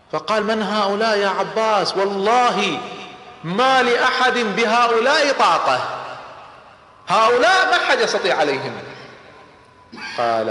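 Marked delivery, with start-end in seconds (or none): 0.4-8.7 awed exclamation. Acted. Abu Sufyan awed by the green battalion.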